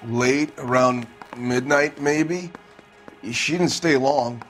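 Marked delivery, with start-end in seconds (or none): 0.1-2.5 slow, halting reply; hesitant answer. Acted. Suspect answers detective about his wife's late visit, hesitant. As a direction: feel your way slowly through the answer.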